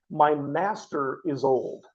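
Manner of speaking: "My" leaned on, read slowly; slow down and press "My master"; stress on My. Shown as a demonstration. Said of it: "I want you to notice it says".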